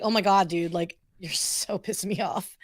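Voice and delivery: lightly done tired Valley-speak; understated West Coast accent; West Coast SoCal accent. Shown as a demonstration. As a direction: grumble casually in SoCal slang. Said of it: "SoCal accent".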